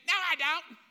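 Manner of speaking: defensive shout. Acted. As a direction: bite back at the girl. Peter denying his accent.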